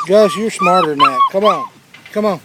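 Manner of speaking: loud falsetto puppy coaxing; high sing-song call to a dog. Real, not acted. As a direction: coax the pup out in a squeaky high voice.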